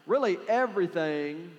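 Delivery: everything drawled in a West Texan twang. Real, not acted. Pastor's own West Texan twang slipping out mid-sermon. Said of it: "I sounded really West Texan just then".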